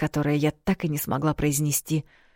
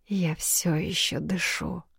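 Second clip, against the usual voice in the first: slow, breathless whisper; slow uncertain whisper; unsure whisper; 6 dB quieter, slower than usual. A narrator's reading. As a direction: test your own voice, barely there. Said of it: "неуверенно проговорила я".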